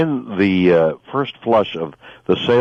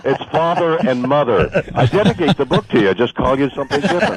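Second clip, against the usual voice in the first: higher-pitched, laughing through the words; amused joke; 6 semitones higher than usual. Real, not acted. Guest teasing the hosts about the book dedication, amused. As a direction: deliver the punchline on a rising laugh.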